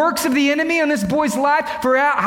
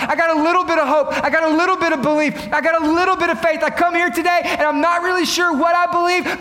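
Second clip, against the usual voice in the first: fast, earnest confession; doubting seeker; 3 semitones higher than usual. Retold or imitated. Seeker confessing weak faith before the altar call, hurried. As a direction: rush it out like a nervous believer. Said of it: "This man says".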